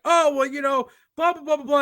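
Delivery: mock a friend's rambling excuse; lightly mocked chatter; mocking blather. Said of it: "John was just like".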